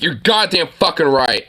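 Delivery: firm "You're goddamn fucking right", with the weight on "goddamn"; tough version. Shown as a demonstration. Streamer shows the candidate how to swear properly, firm and blunt. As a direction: say it like you mean it. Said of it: "Be like".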